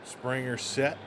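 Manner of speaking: measured live play-by-play; play-by-play call. Acted. Streamer calling the flyout for chat, live play-by-play. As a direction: call the fly ball out. Streamer calls Springer's at-bat.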